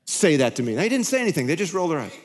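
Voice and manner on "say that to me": imagined defensive retort. Retold or imitated. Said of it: "you attach meaning".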